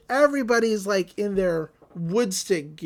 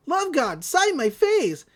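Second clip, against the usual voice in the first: fangirl voice; 7 semitones higher, slower than usual. Retold or imitated. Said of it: "a woman walks up and says".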